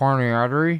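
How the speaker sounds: put-on loud American accent on "coronary artery". Contrasting how they say a phrase: imitating an American accent. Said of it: "whereas they just go".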